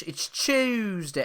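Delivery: "Tuesday" in a slow mid-Atlantic accent; old movie mid-Atlantic accent on "Tuesday"; stagey old movie actor. Shown as a demonstration. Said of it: "Binky's mid-Atlantic accent".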